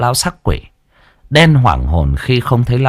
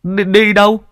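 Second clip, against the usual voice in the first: much higher, petulant whine; squeaky whiny boy; 12 semitones higher than usual. A narrator's reading. Sidekick complaining about chewed leaves, high whiny voice. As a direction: gripe like a spoiled kid. Tý asks.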